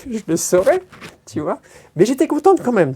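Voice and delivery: laughing. Real, not acted. Joking that the crowd came for her.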